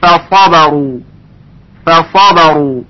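فصبرو with heavy ص and light ف and ب; correct recitation. Shown as a demonstration. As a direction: say فصبرو cleanly. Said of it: "درست اون این هست".

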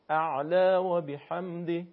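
اعلی و بحمده recited slowly with the ع kept unvoweled; slow model recitation; careful recitation. Shown as a demonstration.

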